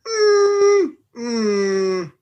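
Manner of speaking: mock pained whine through closed lips; pained hum. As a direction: hum as if reluctant to break bad news. Mock pained reaction to the reminiscer.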